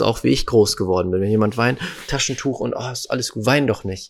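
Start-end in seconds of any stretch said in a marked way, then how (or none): 2.1-4.1 imitated soothing. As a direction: hush someone who is crying, lightly acted. Imitates people consoling someone crying.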